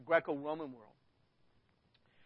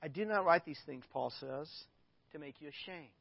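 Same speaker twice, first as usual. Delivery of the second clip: from the heart; 3 semitones lower than usual. Acted. Preacher voicing Paul turning tender to his church, sincere. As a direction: drop the rant and speak from the heart. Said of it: "he's speaking from the heart".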